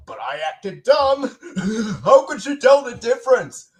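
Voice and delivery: lightly voiced cartoon caveman; a hint of Barney's chuckling voice; Barney Rubble impression. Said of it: "here's an impression that I have never done before".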